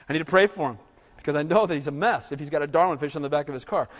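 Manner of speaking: low murmured resolve to pray for the driver. Retold or imitated. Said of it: "and you just".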